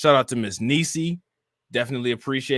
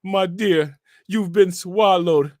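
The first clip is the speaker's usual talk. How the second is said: mock preacher, slow and higher; T D Jakes; 4 semitones higher, slower than usual. Streamer imagining a reverend addressing an official, mock preaching. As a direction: draw it out like a reverend, nearly laughing. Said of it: "He gonna be like".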